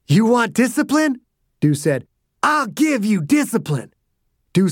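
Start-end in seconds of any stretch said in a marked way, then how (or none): 0.1-1.2 menacing threat. Acted. Dew beating a helpless man. 2.4-3.9 menacing threat. Acted. Dew beating a helpless man.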